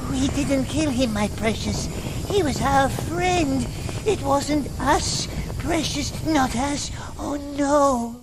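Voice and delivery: high-pitched creature whine; frightened pleading. Acted. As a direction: plead innocence as a tormented wretch. Accused creature pleads innocence.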